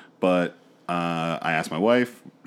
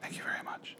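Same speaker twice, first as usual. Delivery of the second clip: soft unvoiced whisper; 19 dB quieter than usual. Real, not acted. Cohosts whispering thanks to each other. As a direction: hush it right down. Whispered banter between hosts.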